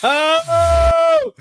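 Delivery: sudden high burst of surprise; surprised. Real, not acted. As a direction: jump up in pitch, delighted. Reacting to his own clip.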